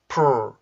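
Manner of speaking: slow, drawn-out "풀" with lips pushed out; rounded-lip P+R. Shown as a demonstration. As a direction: stretch "풀" into an English pr sound. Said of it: "입술이 나오게 돼요".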